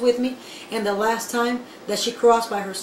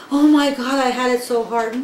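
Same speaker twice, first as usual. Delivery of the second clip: mock whining; 3 dB louder than usual. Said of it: "start crying and saying".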